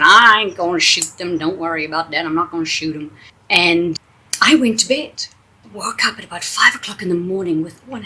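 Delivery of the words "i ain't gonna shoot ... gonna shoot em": put-on thick Texas accent. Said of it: "In her thick accent".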